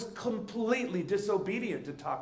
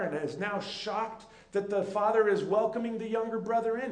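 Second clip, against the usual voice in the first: pleading father; 3 semitones higher than usual. Retold or imitated. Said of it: "he starts using inclusive words".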